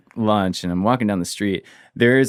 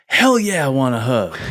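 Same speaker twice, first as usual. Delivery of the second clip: eager yes; 4 semitones higher than usual. Retold or imitated. Attacker happily accepting hug.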